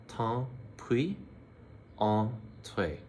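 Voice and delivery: "Tant pis" rising, then a slow "entrez"; teacher slowing down the phrase; slow demo. Shown as a demonstration. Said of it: "So again".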